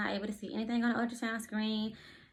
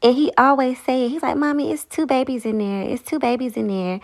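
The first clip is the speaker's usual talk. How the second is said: excited; 3 semitones higher, 12 dB louder than usual. Real, not acted. Loud excited ending.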